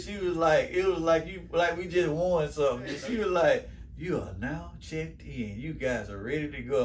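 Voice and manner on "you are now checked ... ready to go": clerk announcing. Retold or imitated. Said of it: "and this is how she said it".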